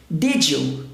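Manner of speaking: "Did you" linked, D and Y merged into J; J sound in "Did you". Shown as a demonstration. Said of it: "som do J".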